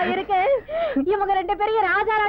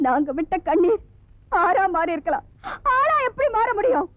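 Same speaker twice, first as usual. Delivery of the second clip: breaking voice, pleading; tearful plea. Acted. Sister reminds her brother of his cruelty, tearful. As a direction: hold back tears as you plead.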